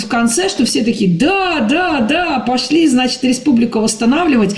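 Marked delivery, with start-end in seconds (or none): 1.2-4.5 rally everyone with hammed-up eagerness; imitating a gung-ho crowd; mock enthusiasm. Mimics the film's enthusiastic crowd.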